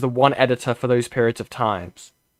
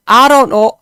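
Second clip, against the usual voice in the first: higher, louder mock Welsh whine; mock Gavin and Stacey line; 10 semitones higher, 12 dB louder than usual. Streamer mocking the sitcom, higher and louder. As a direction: parody a sitcom character. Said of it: "The whole show is just".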